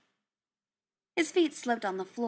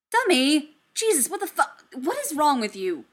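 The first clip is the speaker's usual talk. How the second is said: put-on sharp raised shout after a fleeing kid; shouting after a runaway robot; alarmed shout; 6 semitones higher, 7 dB louder than usual. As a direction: yell his name in alarm, then exasperated. Dummy runs off, Tony yells.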